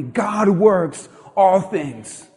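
very slow, stretched for the crowd to join; slow call and response. Shown as a demonstration. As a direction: draw each word out so the church says it along. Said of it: "Say that with me".

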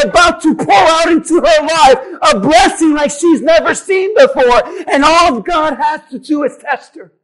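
impassioned sermon delivery; full-force preaching. Real, not acted. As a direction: preach the widow's despair and the coming blessing with drive.

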